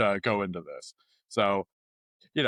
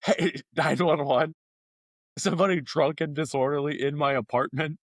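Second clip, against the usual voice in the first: mock 911 call; 4 semitones higher than usual. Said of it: "secretly calling the police".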